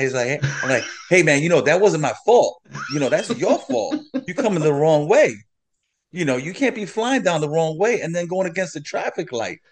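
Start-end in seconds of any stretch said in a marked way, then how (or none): 1.1-9.6 mock indignant self-defence, voice rising; getting upset. Driver blames cyclist for wrong way, getting upset. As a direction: retell an argument, pushing back with growing heat. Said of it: "I'm starting to get upset".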